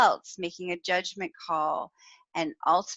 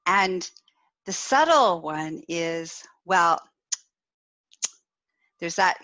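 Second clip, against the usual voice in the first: ordinary talk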